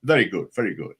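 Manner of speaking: Christopher Lee. Retold or imitated. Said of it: "So he said".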